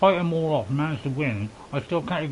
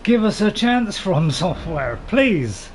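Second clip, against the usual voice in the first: pleading; 3 semitones higher, 5 dB louder, slower than usual. Real, not acted. Pleading with the game developer.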